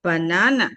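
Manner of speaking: "banana" with relaxed, neutral vowels; schwa vowels in banana. Shown as a demonstration. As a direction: say "banana" clearly, syllable by syllable. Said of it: "And this is".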